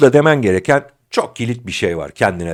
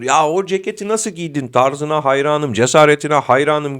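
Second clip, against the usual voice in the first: sarcastic admiration; 4 semitones higher than usual. Acted. Friend mocking someone's jacket, sarcastic. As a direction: needle them with fake praise. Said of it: "gibi böyle sarkastik, iğneleyici".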